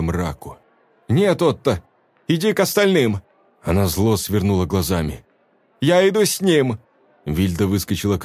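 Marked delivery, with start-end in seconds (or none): 1.1-3.2 raised, sharp dismissal; woman refusing the young man; firm refusal. A narrator's reading. Velda refuses Otto. 5.8-6.8 high firm cry; woman declaring she will go; defiant declaration. A narrator's reading. Velda declares.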